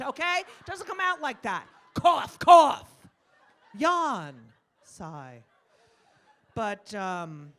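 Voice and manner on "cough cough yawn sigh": mock spoken sounds. Spoken words instead of sounds.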